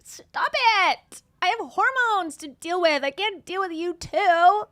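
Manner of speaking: playful fake exorcist; mock exorcism. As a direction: shoo the devil away in jest. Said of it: "light language to remove".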